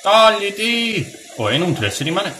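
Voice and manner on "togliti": higher, drawn-out order to move; exasperated repeat. Real, not acted. Player to a companion blocking the way, exasperated and insistent. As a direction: stretch the word in high exasperation.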